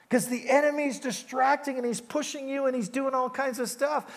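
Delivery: ordinary delivery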